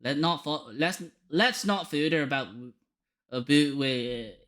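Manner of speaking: put-on lilting Scottish accent; Scottish character. Dismissing old details to a visitor, Scottish accent. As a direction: play an old-fashioned Scot waving off the past.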